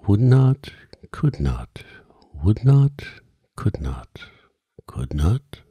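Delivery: loud call answered by whispered echo; echoing refrain. A narrator's reading.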